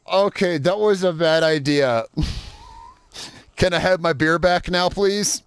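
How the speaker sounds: high, slow words through laughter; laughing. Real, not acted. Laughing after truck sinks.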